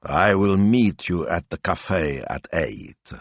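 slow, offhand drawl; slow uninterested film-star drawl; lazy absent drawl. Acted. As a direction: say it as if barely paying attention. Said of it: "in a lazy, absent drawl".

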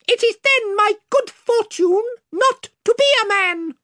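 high, proud squeaky retort; stiff dignified reply. A narrator's reading. Reepicheep coolly answers the frightened king, high and proud. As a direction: answer with cool mouse pride. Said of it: "with a very stiff bow".

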